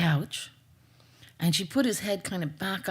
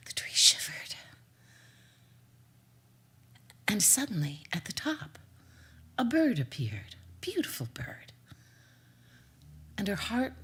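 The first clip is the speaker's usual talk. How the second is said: hushed narration; 6 dB quieter than usual. A narrator's reading. Storyteller whispering to the children about the magic bird. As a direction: breathe the words like a secret.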